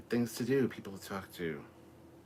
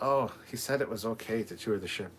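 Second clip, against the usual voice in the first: imitated Russian accent, a bit higher; thick Russian accent; 4 semitones higher, 4 dB louder than usual. Retelling what the funny father says, mock Russian accent. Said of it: "in a thick Russian accent".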